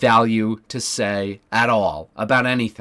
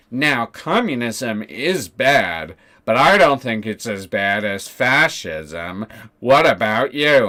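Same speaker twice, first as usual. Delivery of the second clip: very slow, condescending mock lecture; slow mock-wise Not So Erudite parody; mock lecturing guest; 4 dB louder, slower than usual. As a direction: drag it out like a smug expert, then louder at the end.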